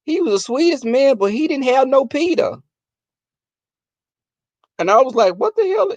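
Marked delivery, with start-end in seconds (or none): 0.1-2.6 lightly voiced grandmother, higher pitch. Grandmother talking about an old boyfriend, lightly imitated. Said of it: "she said". 5.4-5.9 high-pitched disbelief, retold; mock-shocked, pitch jumping way up; startled reaction. Grandchild reacting to grandma's remark, startled.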